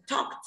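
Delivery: TALKED with the -ed said as a voiceless t; voiceless ending. Shown as a demonstration. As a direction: end "Talked" on a crisp unvoiced t sound. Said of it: "Phát âm vô thanh". (đọc "Talked" với đuôi -ed là âm t vô thanh)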